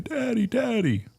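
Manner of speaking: put-on high, slow, plaintive little boy calling Daddy. Father imitating his toddler son calling for Daddy, high and slow.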